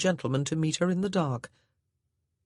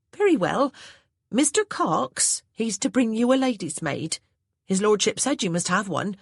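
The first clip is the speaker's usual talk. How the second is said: higher, louder servant voice with a country lilt; a plain-spoken old housemaid reporting orders; Hattie the maid's voice; 6 semitones higher, 4 dB louder than usual. A narrator's reading. Maid Hattie to her new mistress, higher and louder.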